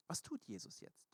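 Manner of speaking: whispered, almost no voice; hushed question. Real, not acted. Preacher whispering the key question to the congregation. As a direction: drop to a whisper to pull listeners in.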